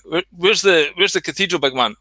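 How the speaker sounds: a hint of a lost tourist asking directions; lightly voiced tourist. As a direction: ask the way, mildly acted. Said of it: "he used to say".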